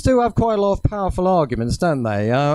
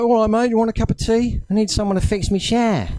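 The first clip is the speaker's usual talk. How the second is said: matey London Cockney wheeler-dealer, pitched up; Del Boy; 5 semitones higher than usual. Acted. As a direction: put on a chummy Cockney accent. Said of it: "Get a bit more like Del Boy".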